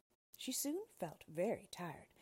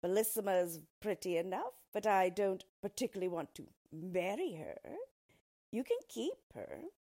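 louder, lightly haughty storybook dwarf; dismissive dwarf; 2 semitones higher, 6 dB louder than usual. Acted. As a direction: turn down the offer with mild scorn. Dwarf disdainfully spurns the offer.

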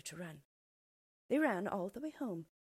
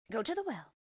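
higher, louder bossy witch command; ordering witch; 5 semitones higher, 5 dB louder than usual. A narrator's reading. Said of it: "she ordered Gretel".

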